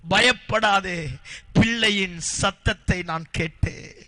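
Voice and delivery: slow, tender God's comfort; gentle reassurance. Acted. God comforts Hagar about her crying boy, slow and tender. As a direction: soothe her fear slowly.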